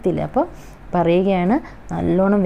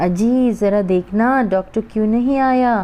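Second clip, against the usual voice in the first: mother's anxious call to her husband, a bit higher; worried mother; 4 semitones higher than usual. Retold or imitated. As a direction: ask why the doctor hasn't come, fretting. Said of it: "അമ്മ എന്താ വിഷമിച്ചിട്ട് പറയുകയാണ്". (ഭർത്താവിനോട് doctor എന്താ വരാത്തതെന്ന് ചോദിക്കുന്ന അമ്മയുടെ ആശങ്ക)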